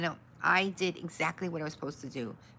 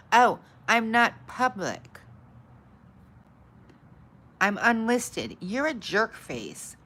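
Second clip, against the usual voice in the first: annoyed outburst; 5 semitones higher, 7 dB louder, slower than usual. Real, not acted. Discovers stream set to unlisted.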